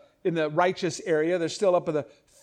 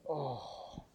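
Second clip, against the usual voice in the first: flat oh; 4 semitones lower, 14 dB quieter than usual. Retold or imitated. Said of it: "her mom just goes".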